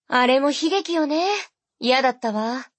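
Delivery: a hint of distaste, still breezy; sister's voice. Sister remembering.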